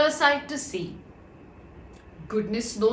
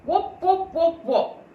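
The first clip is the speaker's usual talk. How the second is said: high hollow wop wop; as if talking into a rolled paper; hollow jug voice; 7 semitones higher, 4 dB louder than usual. A narrator's reading. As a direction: voice muffled inside a jug. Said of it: "made his voice sound very queer indeed".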